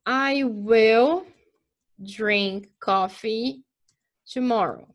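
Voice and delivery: slow, careful example sentence; deliberate classroom example; slow teacher model. Shown as a demonstration. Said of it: "teacher demo sentence".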